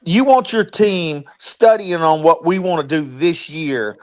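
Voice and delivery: choppy robotic audio glitch. Real, not acted. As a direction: voice breaking up like a robot. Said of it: "Sound like a robot".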